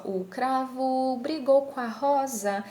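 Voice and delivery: slow, "com a" fused as "coa"; ellipsis. Shown as a demonstration. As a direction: drop the M of "com a" in "brigou com a rosa". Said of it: "pronunciando mais ou menos assim". ("com a" sem M, como "coa")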